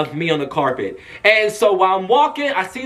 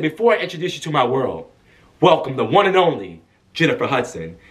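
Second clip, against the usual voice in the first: lightly voiced stage host; Tyler Perry; 5 semitones lower than usual. Host welcoming a singer to the stage, lightly imitated announcer. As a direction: introduce the star in a slightly lowered voice. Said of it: "he talks, and he said".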